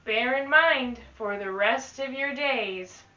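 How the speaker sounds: put-on lively read-aloud to children; teacher reading a rhyming book to the class; storybook reading.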